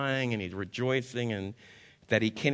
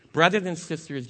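loud, higher address to the room; calling out; 6 semitones higher, 6 dB louder than usual. Acted. Preacher calling out to the congregation, raised voice. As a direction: rouse the room. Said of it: "preacher calls congregation".

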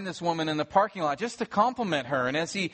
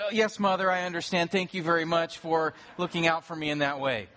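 mock good child. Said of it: "Actually, no".

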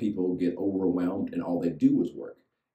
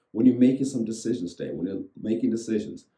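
preaching emphasis; 4 semitones higher, 4 dB louder than usual. Acted. Preaching to congregation.

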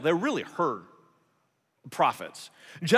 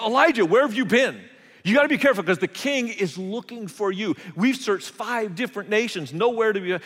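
higher and louder, urgent; anxious warning; 6 semitones higher, 4 dB louder than usual. Retold or imitated. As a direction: hurriedly warn a friend he is being hunted. Friend warns hunted prophet.

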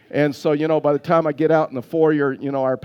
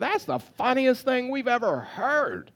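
mock laughing crowd; 8 semitones higher, 4 dB quieter, slower than usual. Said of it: "laid out on the floor and said".

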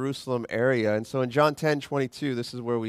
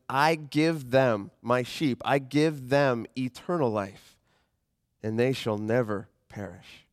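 slow, weighty reading of the verse; slow scripture reading; slower than usual. Acted. Pastor reading verse twenty-eight to the church, slow and weighty. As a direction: lay out every word slowly.

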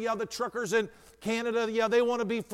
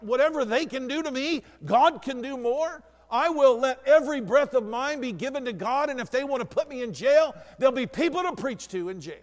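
mock defiance; 3 semitones higher than usual. Pastor's defiant resolve, acted out.

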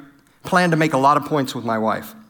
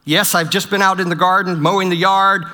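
eager spouse; 3 dB louder than usual. Retold or imitated. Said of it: "Some of you are".

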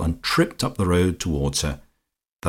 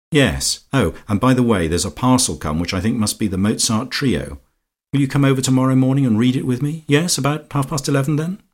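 higher-pitched lady's chatter, hurrying on; Lucia, brisk; 6 semitones higher than usual. A narrator's reading. Lucia inviting Georgie to read the Mozart trio, brisk and high. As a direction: breeze into an eager invitation.

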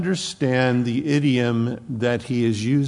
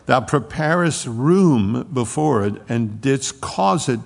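scripture reading; 3 dB louder than usual. Acted. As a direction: proclaim the psalm like a plea to God. Reads Psalm eighty aloud.

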